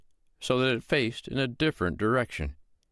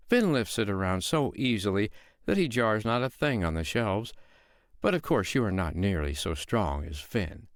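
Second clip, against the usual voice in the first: sweet-voiced woman; 2 semitones higher than usual. Foster mother calmly lying to the giant, innocent tone. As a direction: play the calm mother who is fooling the giant.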